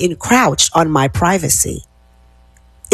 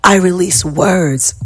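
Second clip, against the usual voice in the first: slow affirmation. Shown as a demonstration. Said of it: "Exhale here".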